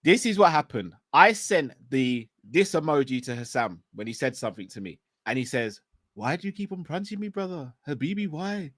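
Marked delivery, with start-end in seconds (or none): 6.1-8.7 light put-on Arab accent, softer; imitating an Arab friend's accent; a hint of Arab accent, teasing; mock Arab accent. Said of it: "Stop doing the Arab accent".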